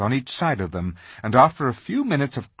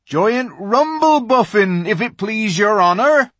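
addressing royalty; 12 semitones higher, 9 dB louder than usual. Acted. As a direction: humbly answer the great lion. Giant answers Aslan humbly.

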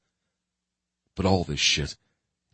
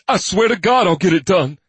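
desperate loud plea, pitched up; loud begging; 13 semitones higher, 7 dB louder than usual. A narrator's reading. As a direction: swear it with panic in your voice. Captive man begging.

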